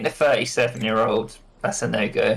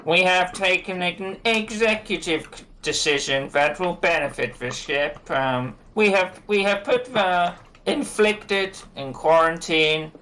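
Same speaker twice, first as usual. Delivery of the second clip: slow, higher proclamation to the crowd; pompous speech; 6 semitones higher, slower than usual. Acted. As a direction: declaim like a self-important official. Pushkin's speech from a box.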